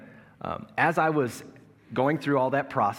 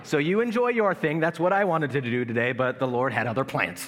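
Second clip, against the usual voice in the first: wry mock-cheerful reply; 3 semitones higher, 4 dB louder than usual. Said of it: "And I'm like".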